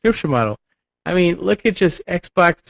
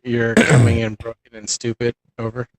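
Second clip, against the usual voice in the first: lower, clipped radio-operator talk ending in over; crackly military radio; 3 semitones lower than usual. Pretend. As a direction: talk like a soldier on a bad radio line. Mock radio chatter, says "over.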